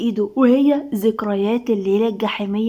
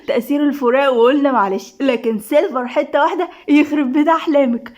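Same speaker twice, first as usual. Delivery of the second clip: mocking, with a trace of laughter; lightly amused ridicule; laughing; 3 semitones higher than usual. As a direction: tease her through fading giggles. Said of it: "الضحكة سمعت في البيت كله".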